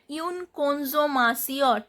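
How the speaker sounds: "consommation" ending in a nasal "sion"; TION as sion. Shown as a demonstration. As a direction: say S, not T, in "consommation". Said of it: "T I O N pronounced as sion".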